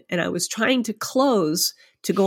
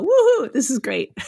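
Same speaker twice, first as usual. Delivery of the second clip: mock cheer; 7 semitones higher than usual.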